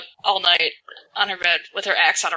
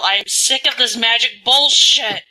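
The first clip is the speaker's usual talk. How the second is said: slow, drawn-out indignant yell, moderately raised; in-character yell; 4 semitones higher, 4 dB louder than usual. Acted. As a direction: yell it in fed-up outrage, stretching the words. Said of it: "I'm gonna yell".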